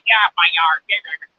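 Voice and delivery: a touch of an angry homeowner shooing; mock angry homeowner. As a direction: lightly act a homeowner chasing someone off. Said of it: "they call the frickin' police".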